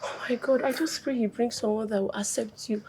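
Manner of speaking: soft whispered hope; whispered prayer. Acted. Friend whispers a prayer for the daughter: hushed. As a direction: breathe the prayer under your voice. Friend praying softly for her.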